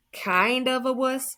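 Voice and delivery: high, drawn-out mocking repeat; incredulous mockery. Dead friend teasing the tearful boy, incredulous. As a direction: stretch it out high in mock disbelief.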